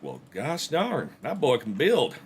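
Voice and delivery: a hammed-up Southern drawl; mock southern accent. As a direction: play a folksy Southern neighbour impressed by the build, southern accent. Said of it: "You'll develop a southern accent and everything".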